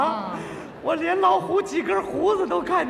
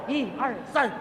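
slogan shout; 7 dB louder than usual. Retold or imitated. Young man leads the crowd, shouting the slogan. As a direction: yell the slogan at the tiger. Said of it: "我起头啊".

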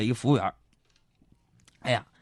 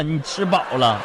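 usual speaking voice

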